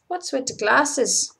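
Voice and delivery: slow, lightly mimicked Irish supervisor; Irish accent. Supervisor questioning crew member about glasses, slow Irish accent. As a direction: draw it out in a mock Irish accent. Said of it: "That's my Irish accent".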